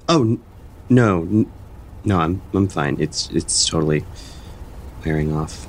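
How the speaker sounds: nervous stammer. Acted. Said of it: "You seem a little nervous".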